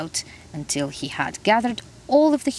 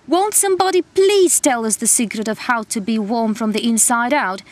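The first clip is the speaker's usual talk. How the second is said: shivering shout; 4 semitones higher, 3 dB louder than usual. Acted. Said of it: "shivered and shouted the frozen gnome".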